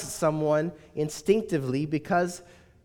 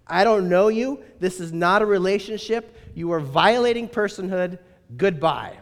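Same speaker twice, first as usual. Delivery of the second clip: firm objection. Retold or imitated. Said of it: "in his own Scottish accent".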